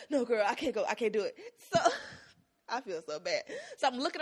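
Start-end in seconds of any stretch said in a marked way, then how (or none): 0.1-1.4 laughing refusal. Retold or imitated. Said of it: "I'm like".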